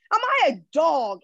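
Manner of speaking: a hint of a giant's roar, barely voiced; understated reading of Goliath roaring at David; mild roar. A narrator's reading. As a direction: read Goliath's taunt with only a touch of menace. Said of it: "he roared at David".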